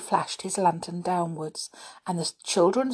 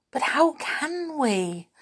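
high, drawn-out eager question; eager whisper; 8 semitones higher, slower than usual. A narrator's reading. Children whisper back to the trees, eagerly. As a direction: ask it eagerly, as a hushed reply. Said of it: "whispered back the children eagerly".

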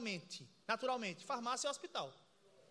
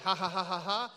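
laughing in the spirit; 6 semitones lower than usual. Shown as a demonstration. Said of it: "Você começa pela fé".

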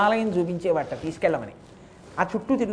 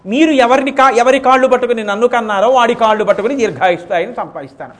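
higher and louder, fervent pleading; passionate plea; 4 semitones higher, 6 dB louder than usual. Acted. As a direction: rise up, urging the father not to weep. Son pleads with weeping father. (తండ్రిని ఓదార్చే కొడుకు, ఉద్వేగంగా, గట్టిగా)

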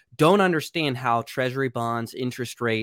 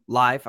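the single word "live" said a bit louder, set apart; stress on live; 4 dB louder than usual. Real, not acted. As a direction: lean on "live" as its own word. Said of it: "I wanna emphasize the word live".

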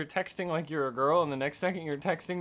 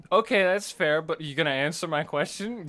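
mocking his odd texting style; imitating his texting; 4 dB louder than usual. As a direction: read his broken text aloud, teasing. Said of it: "that's just how I talk".

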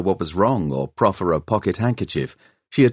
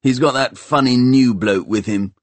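grudging, higher lad's voice; sullen apprentice; 4 semitones higher, 4 dB louder than usual. A narrator's reading. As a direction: toss it off with sulky disdain. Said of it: "he told her sullenly".

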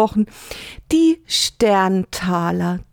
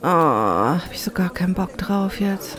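whispering; 2 semitones lower, 4 dB quieter than usual. Acted. Complaining about neighbour.

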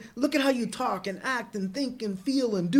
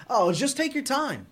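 sarcastic; 3 semitones higher than usual. Shown as a demonstration. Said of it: "You're being sarcastic".

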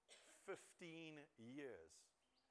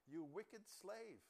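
slow rebuke; 4 semitones higher, much slower than usual. Acted. Lord rebukes the slave.

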